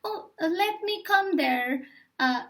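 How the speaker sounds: lightly performed British Received Pronunciation; British RP accent. Shown as a demonstration. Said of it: "That's the accent".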